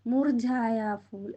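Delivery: മുർജായ ഫൂൽ spelled out slowly, syllable by syllable; slow teaching read. Shown as a demonstration. Teacher to pupils, modelling the phrase slowly. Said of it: "വാടിയ പൂവിന് എന്താ പറയുന്നത് ഹിന്ദിയിൽ?".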